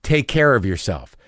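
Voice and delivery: low-key, ominously weighted goodbye; loaded farewell. Retold or imitated. MRI tech to patient walking out, loaded tone. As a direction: imitate a tech hinting at bad news. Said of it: "Did you hear my tone just then?".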